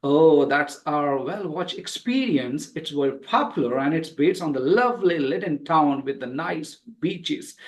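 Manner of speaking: one long connected reading; going with the flow. Shown as a demonstration. Teacher models the dialogue for students, flowing phrases. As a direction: carry the breath through to the full stop. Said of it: "take a long breath, go with the flow".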